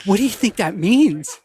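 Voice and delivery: asking through a laugh; amused question about a French fry. Retold or imitated.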